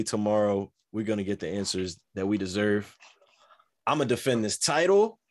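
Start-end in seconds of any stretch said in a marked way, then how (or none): 3.9-5.2 hyped-up champion trash talk; wrestling promo. Acted. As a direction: cut a promo like a cocky wrestler. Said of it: "this man cutting a promo right now".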